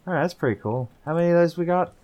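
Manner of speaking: talking while eating; mouth full. Real, not acted. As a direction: speak around a snack. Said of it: "finishing his snack and cup of tea".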